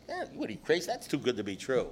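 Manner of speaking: a hint of a sneering skeptic; mock scoffing drunk. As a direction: wave off anything good like a cynic.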